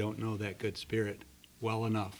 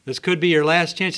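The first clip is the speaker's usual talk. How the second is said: full-voice shout, much louder and higher; yelling from a helicopter; 6 semitones higher, 12 dB louder than usual. Acted. Helicopter crew yelling down to the stranded man, loud shout. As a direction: yell over the roar of the rotors. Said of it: "Helicopter yells out there".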